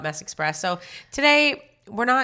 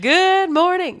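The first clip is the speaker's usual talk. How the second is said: peppy greeting; 11 semitones higher, 5 dB louder, much slower than usual. Retold or imitated. Co-host mimics the greeting.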